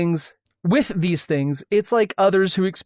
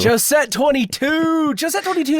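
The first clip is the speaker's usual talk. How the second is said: excited; 7 semitones higher than usual. Real, not acted. Greeting a favourite commenter.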